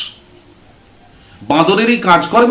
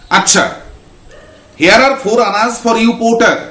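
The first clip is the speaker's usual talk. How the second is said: higher, lordly tone; haughty master; 6 semitones higher than usual. Acted. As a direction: toss coins down grandly. Sethji paying porter. (দাম্ভিক সুরে)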